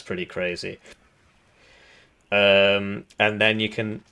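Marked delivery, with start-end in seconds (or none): 2.3-4.0 hiccuping. Real, not acted. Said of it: "sorry, I keep hiccuping".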